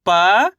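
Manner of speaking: "प" held alone, sweeping up in pitch; अक्षर का उच्चारण. Shown as a demonstration. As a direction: sound out "प" long and rising. Teacher sounds out one letter. ("प" को खींचकर चढ़ते सुर में)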